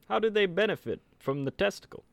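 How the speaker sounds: put-on old-timey voice. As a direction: press the doctor like an old-time lawyer. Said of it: "the prosecutor in an old-timey voice".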